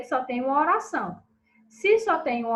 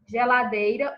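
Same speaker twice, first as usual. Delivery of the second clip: Geladeira with the DEI syllable leaned on; stress on DEI; 4 dB louder than usual. Shown as a demonstration. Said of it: "é a sílaba tônica".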